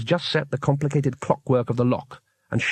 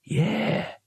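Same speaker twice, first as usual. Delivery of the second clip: high, wary drawn-out agreement; cautious; 7 semitones higher, 4 dB quieter than usual. A narrator's reading. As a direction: agree carefully, unsure who just spoke. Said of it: "said the leader cautiously".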